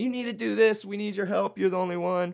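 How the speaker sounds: play-acted, high-pitched, insistent pleading scream. Retelling a story, the speaker acts out one man screaming at another, retelling a scream. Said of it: "starts screaming at him".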